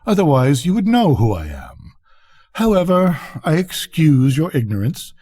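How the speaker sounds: lightly voiced pompous grandee; boastful rocket. Rocket boasting to the duck of his flying, haughty. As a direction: show off with mild condescension.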